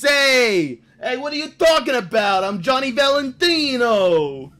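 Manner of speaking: high, loud put-on New Jersey tough voice; put-on tough guy. Prank caller playing a fake New Jersey kid, hammed-up. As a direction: play the fake transfer kid acting tough. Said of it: "we'd always talk like this".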